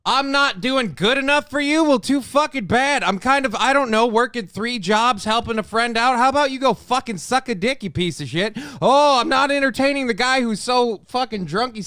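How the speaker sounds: tired worker snapping back at a critic, angrily; angry rant. Real, not acted. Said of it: "end a rant against someone".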